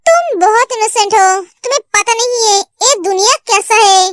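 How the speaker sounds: gently explain, the anger gone; soothing, understated reassurance; calmed down. Acted. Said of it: "Jangu का गुस्सा शांत हो जाता है".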